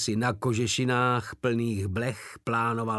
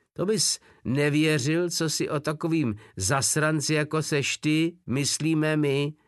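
louder, higher yell; shouting; 6 semitones higher, 4 dB louder than usual. A narrator's reading. Drobeček yelling at Wolf from the barracks window. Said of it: "vykřikl Drobeček z okna ubikace".

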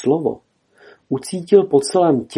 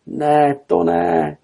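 high-pitched cry of disbelief; exclaimed denial; 6 semitones higher, much slower than usual. A narrator's reading. Kenai sees his bear reflection, cries out. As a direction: call out in dismay, pitch raised.

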